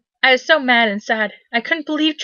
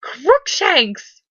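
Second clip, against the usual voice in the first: shouted name; 5 semitones higher than usual. A narrator's reading. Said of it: "I shouted at him".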